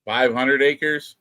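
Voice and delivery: slow, drawn-out disbelieving question; amazed echo. Real, not acted. Friend hearing how much land she bought, slow amazed echo. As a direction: stretch each word in wonder.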